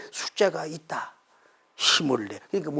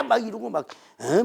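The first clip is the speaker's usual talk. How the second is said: ordinary talk, nothing marked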